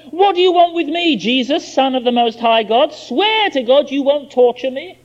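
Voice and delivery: a hint of the lunatic's shout; mild mock shout. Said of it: "He shouted at the top of his voice".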